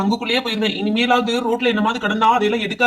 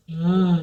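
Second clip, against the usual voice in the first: low, whimpering sob; acted crying with drawn-out moans; weepy ghost sobbing without words; mock crying; 4 semitones lower than usual. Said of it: "எதுக்கு இப்படி அழுதுட்டு இருக்கீங்க".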